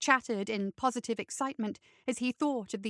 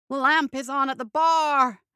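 moaning; 2 semitones higher, 7 dB louder than usual. A narrator's reading. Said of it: "moaned Bo".

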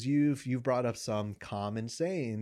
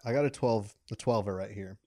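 chewing while talking; 2 semitones lower than usual. Real, not acted. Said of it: "I'm sorry for the chewing".

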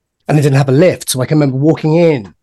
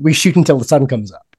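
put-on German accent. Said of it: "in his crazy German accent".

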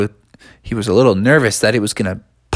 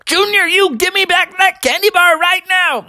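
mock stern demand. Grabs brother by the ear.

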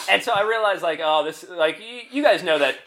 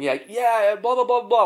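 mildly raised mock yell; imitated yelling; 7 semitones higher than usual. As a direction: imitate a woman yelling from afar. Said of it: "I hear her yelling".

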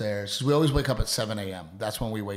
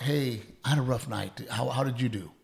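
softer model of a considerate greeting; gentle check-in; 5 dB quieter than usual. Shown as a demonstration. Husband modelling a kinder morning talk for wife, gentle. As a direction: mildly offer sympathy, then ask.

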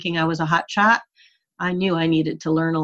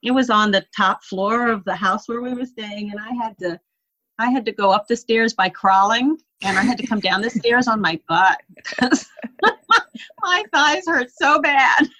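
laughing through it; 4 semitones higher than usual. Real, not acted. Laughing about crawling up stairs.

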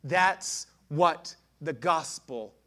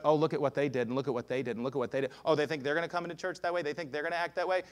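judgmental gossip; 3 semitones lower, 5 dB quieter, faster than usual. Acted. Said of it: "If more is coming out of your mouth".

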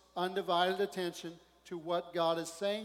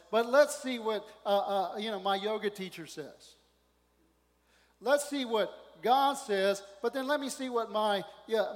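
high, loud, slow sing-song mockery of a waverer; mocking double-minded; 4 semitones higher, 7 dB louder than usual. Preacher mocking a double-minded believer, hammed-up and loud. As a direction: mimic someone weighing God against a therapist. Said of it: "it's not like".

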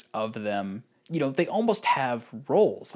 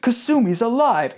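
much higher, louder hammed-up cheer; mock joy; 11 semitones higher, 6 dB louder than usual. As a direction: overplay the twist. Parodying dramatic beats.

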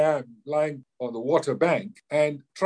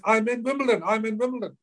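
high-pitched mock cheer, not shouted; imitated elation; 9 semitones higher than usual. Imitating lucky loser jumping up in the cinema, elated. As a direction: act out someone's gleeful outburst, pitched well up.

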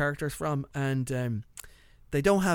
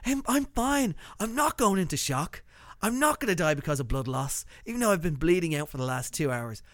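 Black Knight impression; 3 semitones higher than usual. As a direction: play it off like nothing's wrong. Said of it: "It was totally the Black Knight".

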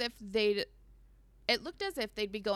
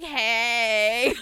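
caught-out Brother Enoch; 10 dB louder than usual. Retold or imitated. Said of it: "Brother Enoch's like".

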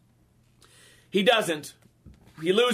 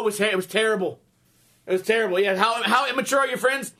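ordinary delivery

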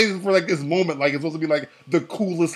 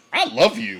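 brusque, dismissive mock-angry retort, pitched up; imitated angry brush-off, higher voice; dismissively angry; 5 semitones higher than usual. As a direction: throw the words away with mock annoyance. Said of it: "most dismissively angry way".

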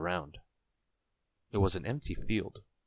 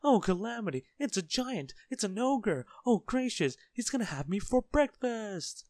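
very high hysterical wailing; terrified scream; 3 dB louder than usual. A narrator's reading. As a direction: shriek as if facing an ogre. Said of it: "he screamed".

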